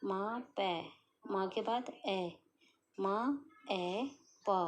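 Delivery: मा, ए, पा stretched very slowly; teacher sounding out map. Shown as a demonstration. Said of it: "sound पे देखना".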